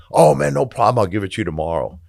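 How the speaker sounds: high mock-breezy brush-off, words tumbling fast at the end; mocking the ex-partner. Mocking the ex-partner who owes for the wrecked house, high and breezy. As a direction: toss off the promise in a squeaky, too-easy voice.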